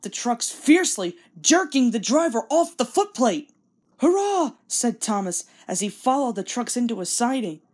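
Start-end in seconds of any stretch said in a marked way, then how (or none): 4.0-4.5 much higher, louder cheer; cheeky engine cheering as he breaks the rule; gleeful hurrah. Acted. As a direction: whoop with naughty triumph. Thomas charges past the sign.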